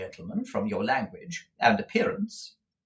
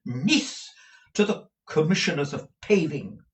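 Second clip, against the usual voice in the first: indignant, higher matron; with some warmth; 6 semitones higher than usual. A narrator's reading. Mother indignant about rumours of her grand relations, a touch heated. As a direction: bristle at the insult. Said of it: "with some warmth".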